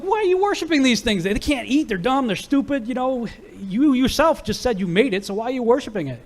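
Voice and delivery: high, exasperated questioning; incredulous challenge. Retold or imitated. Son mockingly confronting his father about the idols. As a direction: needle him, as if it's obvious.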